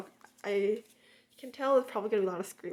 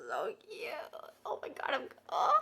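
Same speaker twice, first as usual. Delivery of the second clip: whisper; faster than usual. Real, not acted. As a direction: whisper it tenderly. Hushed awe.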